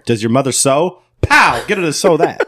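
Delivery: lightly acted tough talk; mock trash talk. Podcaster taunting an imagined bear, mock trash talk. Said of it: "I would have said to the bear".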